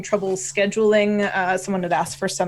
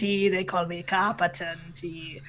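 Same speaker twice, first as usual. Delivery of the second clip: Canadian pirate. Acted. Telling listeners his nickname, Canadian pirate voice. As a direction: introduce yourself like a pirate captain. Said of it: "your Canadian pirate voice".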